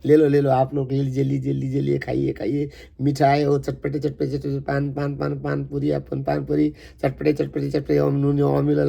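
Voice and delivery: rapid, chanted vendor patter; Indian vendor calls. Retold or imitated. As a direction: rattle off the wares like a street seller. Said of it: "They talk in their own accent, Indian accents".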